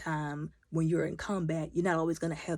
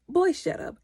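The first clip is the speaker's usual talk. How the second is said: high, loud dismissal; mock snap; 12 semitones higher, 6 dB louder than usual. Vlogger snapping at the boy on screen, loud. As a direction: shut him down hard. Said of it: "And I'm like".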